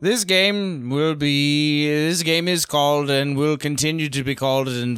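lightly voiced grumpy tavern host; a hint of a theatrical old barkeep; Usador. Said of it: "channeling Usador a little bit".

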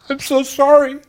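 high, strained "I'm so sorry"; a real apology, pitch jumping up; anguished apology. Real, not acted. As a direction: let the remorse crack through. Remorse breaking through.

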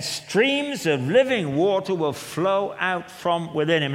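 loud, slow scripture declaration; loud proclamation. Acted. Jesus at the feast, declaring the promise loudly. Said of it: "As the scripture has said".

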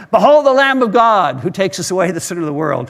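mild mock shout while cycling; proclaiming aloud from a bike; retold shout. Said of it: "impressed to shout out loud".

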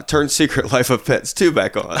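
a hint of a toddler asking; plain little-kid demand, barely acted; lightly voiced toddler demand. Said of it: "Levon ... says".

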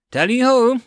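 excited shout; yelled. A narrator's reading. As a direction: belt out the battle call. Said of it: "Luth yelled".

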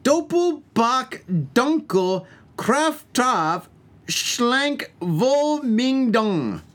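high, very slow fake German; hammed-up German label reading, each word stretched; really bad German accent. Host reading a German beer label, really bad German accent. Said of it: "speaking German with a, a really bad accent".

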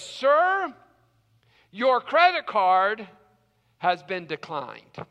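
lightly voiced server, slow and deliberate; a hint of an awkward announcement; server breaking bad news. Server delivers bad news to diner.

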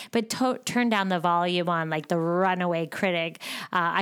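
ordinary talk, nothing marked

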